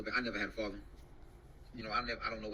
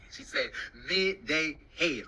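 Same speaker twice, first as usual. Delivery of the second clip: laughing; 2 semitones higher, 5 dB louder, much slower than usual. Real, not acted. Laughing retelling of woman's words.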